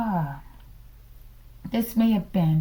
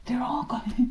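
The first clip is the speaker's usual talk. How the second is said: whisper; 4 semitones higher than usual. Real, not acted. Whispered build-up before laughing.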